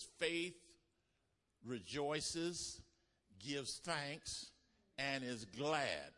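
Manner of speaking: preacher to congregation about faith, rising joyful emphasis; joyful proclamation. Acted.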